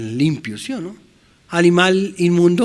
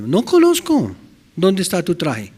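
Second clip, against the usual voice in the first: the Lord questioning; 3 semitones higher than usual. Acted. Voicing the Lord at judgment.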